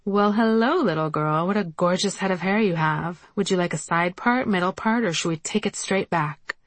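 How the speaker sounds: lightly voiced camp hairdresser; a playful hint of a flamboyant stylist. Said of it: "a flamboyantly gay hairdresser".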